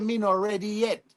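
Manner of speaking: light Jamaican patois reply. Retold or imitated. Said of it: "Me said".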